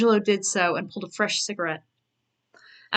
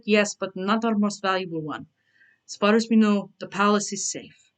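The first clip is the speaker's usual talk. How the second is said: Italian slipping into Russian. Acted. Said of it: "my Italian is becoming Russian".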